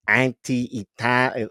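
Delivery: put-on slow, half-hearted Italian-American accent; a faltering try at Silvio's New Jersey Italian; attempted Silvio accent. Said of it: "the voice of Silvio".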